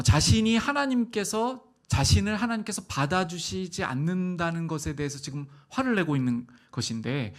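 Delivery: usual speaking voice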